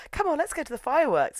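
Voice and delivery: put-on high, girlish urging; eager girl. Sakagawa pulling Shizuka to the fireworks, high eager voice. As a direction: coax brightly in a high pitched voice.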